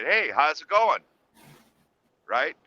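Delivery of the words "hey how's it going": loud, sudden pranking hello; startling greeting. Retold or imitated. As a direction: call it out to startle someone. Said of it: "I'm gonna startle him".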